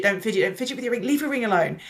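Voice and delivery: rapid-fire scolding; nagging, words tumbling out fast; fast nagging repeat. Retold or imitated. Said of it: "So I would get told".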